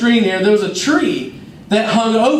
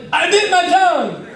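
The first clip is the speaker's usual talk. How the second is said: put-on high childlike fib; a five-year-old lying to mom in a high voice; whiny kid; 10 semitones higher than usual. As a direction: play the crying little boy. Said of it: "I was like".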